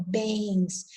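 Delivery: bens with a small I before the S; nasal glide demo. Shown as a demonstration. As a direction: say bens as "bẽins". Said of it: "tem um Izinho aí". (bens com um izinho nasal)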